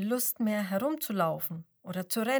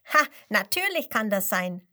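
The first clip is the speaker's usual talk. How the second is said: louder laughing retort; 7 dB louder than usual. A narrator's reading. Penguin laughing at the doubting lion, amused. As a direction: laugh it off brightly. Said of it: "lacht der Pinguin".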